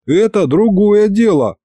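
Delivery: high-pitched indignant protest. A narrator's reading. Boss defends himself to grandfather, indignant. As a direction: object hotly, pitch jumping up. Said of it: "возмутился я".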